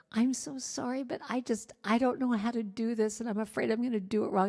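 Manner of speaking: sheepish apology. Retold or imitated. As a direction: retell a meek, apologetic plea for help. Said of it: "I so sheepishly came up and said".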